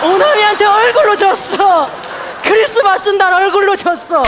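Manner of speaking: high, loud indignant wail; loud lament. Acted. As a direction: cry out the defeat.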